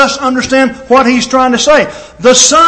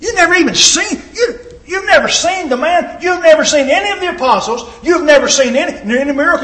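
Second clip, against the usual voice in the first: incredulous skeptic; 4 semitones higher than usual. Retold or imitated. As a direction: scoff at the believers as if they're fools. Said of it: "people look at us and go".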